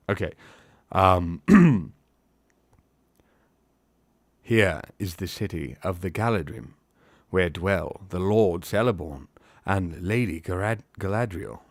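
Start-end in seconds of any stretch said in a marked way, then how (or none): 4.4-11.6 put-on accent, formal and measured; Haldir. Elf naming the city's rulers, formal put-on accent. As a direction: present it formally in the elf's accent. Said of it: "to say in this accent".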